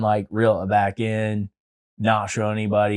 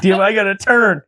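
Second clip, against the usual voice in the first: high, loud mock whine; hammed-up choked-up complaint; tearful dismay; 11 semitones higher, 6 dB louder than usual. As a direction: blurt it as if about to cry, half laughing. Retold panic near tears.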